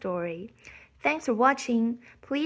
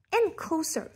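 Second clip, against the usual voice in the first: suspense climax; 5 semitones higher than usual. A narrator's reading. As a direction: burst out on the last closer. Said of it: "narration building suspense".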